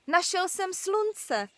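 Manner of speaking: high, slow and wondering; boy marvels at the sun he found; excited discovery. Acted. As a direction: savour the find, drawn out.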